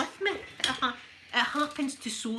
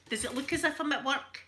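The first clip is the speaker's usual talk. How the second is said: a touch of cheeky sass, lightly done; mildly cheeky comeback; dead cheeky; 5 semitones higher than usual. Retold or imitated. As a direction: toss it back with mild cheek. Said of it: "Dead cheeky like that".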